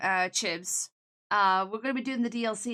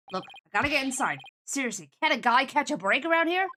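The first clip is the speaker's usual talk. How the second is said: fed-up New York guy, slightly louder; New York accent; 4 dB louder than usual. Acted. Man needing to get inside, fed-up New York accent. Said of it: "I'm getting a New York vibe".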